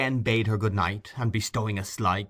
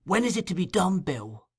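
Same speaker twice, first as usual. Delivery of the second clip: high, eager repeated question; Fagin echoing; 9 semitones higher than usual. A narrator's reading. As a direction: press Bill for the date.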